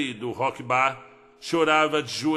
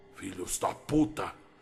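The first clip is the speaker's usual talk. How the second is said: breathy whispered snarl, growled and low; 7 semitones lower, 7 dB quieter than usual. Reading a story where a trapped character curses in the dark: growled curse. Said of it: "grunhiu tateando pela escuridão".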